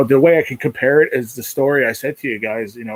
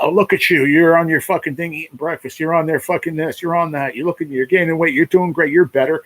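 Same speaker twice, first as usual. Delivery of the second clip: mocking imitation; 6 semitones higher than usual.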